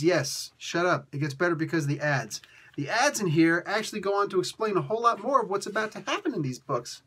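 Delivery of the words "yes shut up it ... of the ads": insistent comeback to a doubter; playful, matter-of-fact insistence; mock-firm retort. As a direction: shut down the objection firmly. Answers the imagined doubter.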